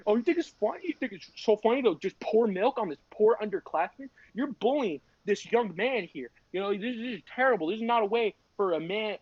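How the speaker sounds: mock a disapproving lecture from school staff; lecturing assistant principal. Assistant principal to sophomore, mock scolding lecture. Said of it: "he give me the whole lecture".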